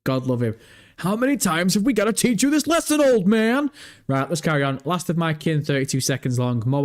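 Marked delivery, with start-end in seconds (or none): 1.0-3.7 mock scolding. Real, not acted. Teasing the old man.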